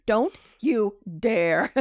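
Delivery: slow, lightly acted warning; menacing warning. Voicing a character's death glare, slow mock warning. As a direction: draw out each word as a mock threat.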